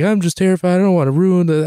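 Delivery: high, fretful mock panic; hammed-up technophobic worry; imitating terrified mom. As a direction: play a mom scared of breaking the phone. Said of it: "it's the part of it's the terrifiedness of it".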